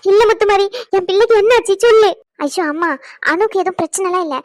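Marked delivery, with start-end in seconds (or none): 0.1-2.1 crying. Acted. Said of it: "நீ அழுவாத".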